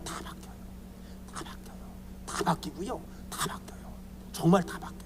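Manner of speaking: hushed, mostly whispered repeats; whispered aside. Real, not acted. Pastor assuring the congregation people change, whispered. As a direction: whisper it like a secret.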